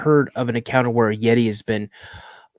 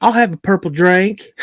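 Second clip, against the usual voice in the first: put-on high, childlike redneck girl; a hint of a kid with a redneck twang; little redneck girl; 8 semitones higher, 4 dB louder than usual. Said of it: "she sounded like she's a little redneck".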